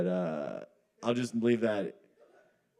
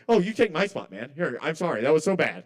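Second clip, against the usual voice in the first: hammed-up gushing sorry, higher on the oh; exaggerated mock apology; 4 semitones higher, 3 dB louder than usual. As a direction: push the fake apology even further. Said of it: "I'm kinda doing a bit".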